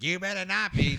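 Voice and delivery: high, sharp mock warning; hammed-up mom laying down the law; stern mom warning. Mom on the phone forbidding a new dog, high and sharp.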